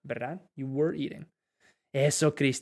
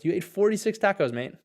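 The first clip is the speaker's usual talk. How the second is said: light British; 5 semitones higher than usual. Shown as a demonstration. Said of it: "How the British people would say".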